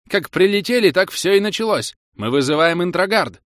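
very high, loud squealing; shrill. A narrator's reading. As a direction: keep squealing the accusation. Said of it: "визгливо подхватил другой гильд". (визгливо, на высокой ноте)

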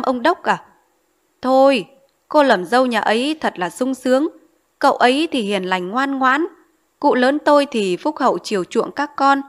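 eager matchmaker selling the match; lightly voiced matchmaker. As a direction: talk up the rich groom, coaxing.

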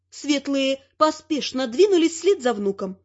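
plain reading voice

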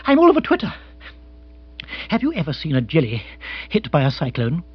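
high flustered outburst, then easing into a question; jittery aristocrat character voice; agitated lord, all a-twitter. Acted. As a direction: burst out high, then explain.

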